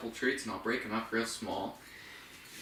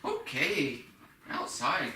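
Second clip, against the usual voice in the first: higher cue, "outside" swooping and falling; stress on OUTSIDE; 3 semitones higher, much slower than usual. Shown as a demonstration. Trainer cueing a dog to go out, emphasized "outside". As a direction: make "outside" stand out for a dog. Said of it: "Start emphasizing the word outside".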